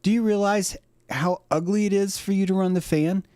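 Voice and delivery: high-pitched dog lecturing its owner; talking dog. Acted. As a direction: complain in a high cartoon dog voice. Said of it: "Dog's like".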